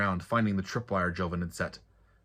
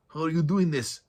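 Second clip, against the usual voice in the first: much higher, louder, startled question; 9 semitones higher, 5 dB louder than usual. A narrator's reading. The trapped bodyguard asks Joven about the moss, startled and high. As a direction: gasp it out in disbelief.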